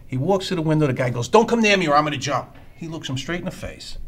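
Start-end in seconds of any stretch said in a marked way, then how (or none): 1.3-2.6 loud mock yell of a desperate man; jumper's shout. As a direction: threaten from the ledge, raised voice. Voicing the jumper's threat.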